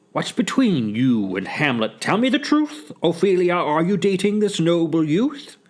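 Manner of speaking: questioning rising high at the end; demanding father. Acted. Polonius questioning his daughter about Hamlet, demanding.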